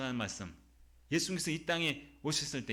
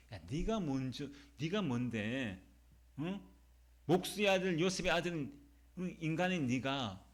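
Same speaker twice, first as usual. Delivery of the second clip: mildly acted scornful outrage; mock-indignant challenge, building toward the end. Preacher voices Jews challenging Jesus's claim, mildly indignant. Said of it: "유대인들이 막 분노하는 거야".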